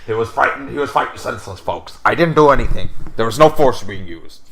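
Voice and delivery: loud ranting talk-show host voice; mock Alex Jones rant. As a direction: bellow it like a conspiracy radio host. Alex Jones style rant, "folks.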